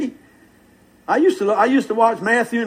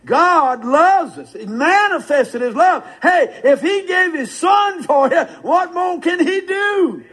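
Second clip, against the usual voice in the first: slow and rising higher, each phrase stretched out; slow, rising preacher's climax; building preaching; 6 semitones higher, slower than usual. Real, not acted. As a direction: climb in pitch as the fervour builds.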